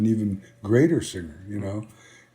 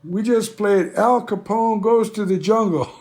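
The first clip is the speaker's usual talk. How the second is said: high-pitched, tickled retelling; giddy, higher-pitched mock announcement to a pal; retold laughing glee; 11 semitones higher, 3 dB louder than usual. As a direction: crow it like a kid bursting to laugh. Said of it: "we're laughing, laughing, and we're telling each other".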